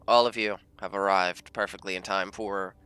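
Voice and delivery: mock posh English announcer voice; English accent. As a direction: introduce the players like a grand British ring announcer. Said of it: "I was laughing at your English accent".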